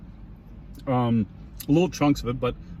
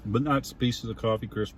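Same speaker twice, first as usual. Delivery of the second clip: chewing while talking; mouth full; 3 semitones lower, 4 dB quieter than usual. Real, not acted. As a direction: speak through a crunchy bite. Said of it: "you can hear me crunching".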